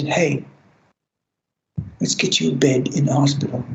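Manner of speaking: warm and calm. Retold or imitated. Counsellor gently settling a suicidal client, warm and calm. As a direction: ease someone into help kindly. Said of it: "warmly and calmly".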